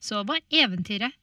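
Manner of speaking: playful, sing-song closing rhyme; storybook ending. A narrator's reading. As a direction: finish the tale with a flourish. Fairy tale closing formula.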